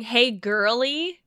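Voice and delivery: slow, stretched sweet greeting; slow drawn-out greeting. Shown as a demonstration. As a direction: draw out hey girly slowly. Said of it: "is we're dating the same man".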